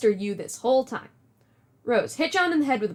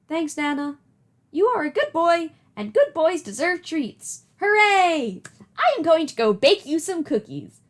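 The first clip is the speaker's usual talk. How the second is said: Nana voice; 5 semitones higher, 4 dB louder than usual. Acted. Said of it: "Do you like my Nana voice?".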